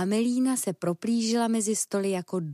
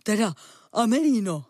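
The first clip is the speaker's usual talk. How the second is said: out of breath; 5 dB louder than usual. Acted. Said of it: "zadýchaně ze sebe vyrazil".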